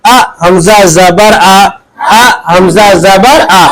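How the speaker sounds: slow, drawn-out syllable reading; slow recitation. Shown as a demonstration. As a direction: read each syllable slowly for pupils. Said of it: "इसको कैसे पढ़ेंगे?". (धीमे स्वर में पढ़कर दिखाना)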